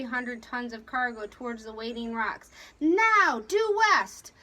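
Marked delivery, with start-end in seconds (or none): 2.8-4.3 loud, high-pitched order; sharp command. A narrator's reading. Captain ordering a turn, loud command. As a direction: call the turn out hard.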